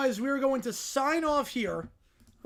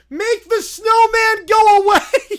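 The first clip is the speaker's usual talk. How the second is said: loud, high, slow caveman shout; 10 semitones higher, 14 dB louder, slower than usual. Acted. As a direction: bellow like a dumb caveman. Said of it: "Why did it talk like a caveman".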